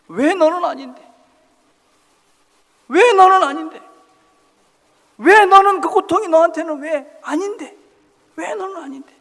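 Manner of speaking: high, very loud booming reply; voice from heaven. Acted. Heaven answering the complaining man with a booming shout. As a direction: thunder it back from the sky. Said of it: "하늘에서 음성이 들립니다".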